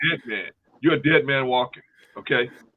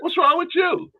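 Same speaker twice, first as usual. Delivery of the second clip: put-on high girlish voice, puzzled; mock girl asking her trembling date; 4 dB louder than usual. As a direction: ask like a confused teenage girl.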